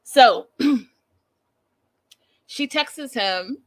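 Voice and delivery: slow eerie storyteller voice; slow crazy voice. Shown as a demonstration. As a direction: stretch it out with crazy eyes. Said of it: "try to do one thing".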